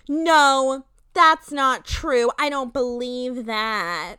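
loud, drawn-out mock protest; emphatic denial. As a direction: retell it as a slow, indignant no. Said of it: "is like".

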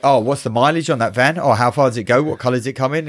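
lightly put-on Australian accent. Weird neighbourhood kid pestering with questions, Australian accent. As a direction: ask away with a touch of Australian. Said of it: "did that in an Australian accent".

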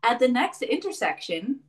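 navigation voice, each word set apart; GPS voice. Pretend. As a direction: read it like a recorded GPS prompt. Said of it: "be one of the, like, traffic voices".

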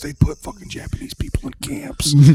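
high, giggling mock announcement; breaking up with laughter mid-line; laughing through words.

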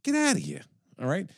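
high-pitched imitation of a cop telling off a loudmouth; mock cop yell. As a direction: bark the cop's orders up high. Cop shouting at offender.

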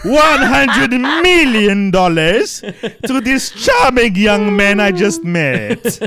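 very slow, drawn-out mock celebrity voice; hammed-up phone-scam impersonation, stretching every word; Michael Jordan impression. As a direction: draw it out grandly as a fake star. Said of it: "I am Michael Jordan".

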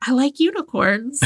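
put-on giggling through a girly quote; laughing. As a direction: laugh while quoting. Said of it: "she's just like".

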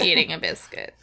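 low, soft sultry ASMR murmur; moaning ASMR. Pretend. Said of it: "Moaning A S M R".

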